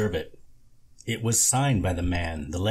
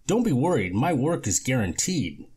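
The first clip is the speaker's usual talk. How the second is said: lightly voiced slick contractor, a bit higher; a hint of a smooth-talking repairman; smooth con man; 5 semitones higher than usual. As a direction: sell it like a sweet-talking con artist. Lorne reassuring the lady.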